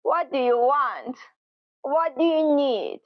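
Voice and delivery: annoyed. Shown as a demonstration. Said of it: "kind of annoyed".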